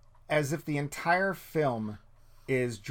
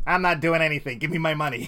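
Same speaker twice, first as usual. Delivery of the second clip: a hint of a blunt, louder star refusal; Jack Nicholson; 4 dB louder than usual. Actor refusing the accent work, lightly imitated. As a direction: lightly imitate an actor who won't bother. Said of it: "Jack Nicholson in The Departed said".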